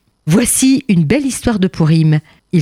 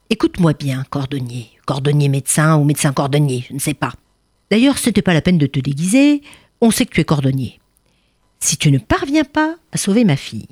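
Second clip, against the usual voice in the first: sure, menacing emperor; 2 semitones lower than usual. Acted. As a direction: warn him coldly, sure of yourself. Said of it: "très sûr et même inquiétant".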